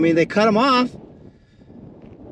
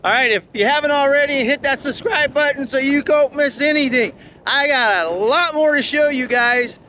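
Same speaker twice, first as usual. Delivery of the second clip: raised voice, higher pitch, over the wind; shouting over wind; 5 semitones higher than usual. Real, not acted. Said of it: "I'm kinda talking a little loud 'cause this".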